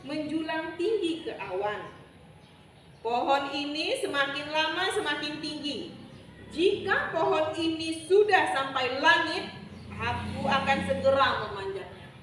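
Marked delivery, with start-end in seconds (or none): 3.0-12.1 lightly voiced boastful villain, growing louder; determined schemer. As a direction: announce the plan loudly. Bujang beji menyatakan niatnya. (bertekad, suara makin lantang)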